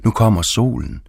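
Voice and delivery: bright, high cry of joy; lifted, gleeful exclamation; delighted exclaim. Retold or imitated. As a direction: burst out happily at the sun. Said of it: "udbrød jeg".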